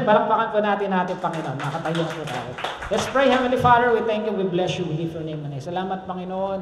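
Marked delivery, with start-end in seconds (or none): 2.9-6.6 earnest pastor's prayer; closing prayer. Acted. Pastor leading the congregation in a closing prayer. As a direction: lead the church in prayer.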